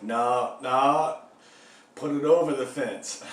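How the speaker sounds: mock cop correcting him sharply; imitating a cop snapping an order; cop's order.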